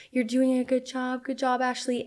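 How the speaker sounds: soft, gentle midwife encouragement; calming soothing voice. Retold or imitated. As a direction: soothe her through the contraction. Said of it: "the most calming, soothing voice".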